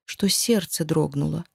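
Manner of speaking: usual speaking voice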